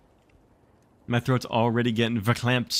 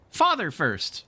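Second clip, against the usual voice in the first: put-on suspicious boy; 9 semitones higher, slower than usual. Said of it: "said Michael, who ... suspicious nature".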